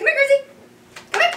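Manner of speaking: high, loud call to the dog. Real, not acted. Trainer calls Grizzly across the room, high and loud. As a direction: sing out his name to bring him over.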